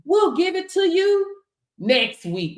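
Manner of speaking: high, mock sorry employer voice; hammed-up fake apology from the payroll office; mock apologetic boss. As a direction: brush them off with a fake apology. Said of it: "And they say".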